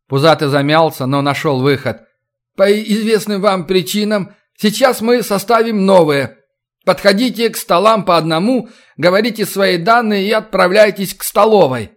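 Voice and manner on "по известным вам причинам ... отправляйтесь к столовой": flustered official speech. Acted. Official gives instructions.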